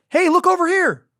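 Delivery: loud, high attention-grabbing shout; sudden high-pitched yell; calling out. Acted. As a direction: holler it to grab their attention. Calling out to the audience.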